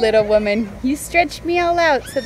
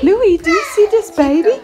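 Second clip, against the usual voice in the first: high, loud, eager questioning; excited pet talk; 10 semitones higher, 6 dB louder than usual. Real, not acted. Showing Louie the new baby, excited. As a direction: pitch it up as if to a dog.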